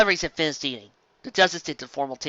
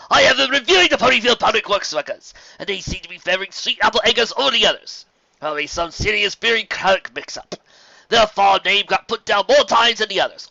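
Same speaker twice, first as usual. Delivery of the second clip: higher, louder, gracious and flattering; courtly gentleman pony; 7 semitones higher, 6 dB louder than usual. Acted. Fancy Pants flattering Carrot Top, raised and gracious. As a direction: lay the praise on politely.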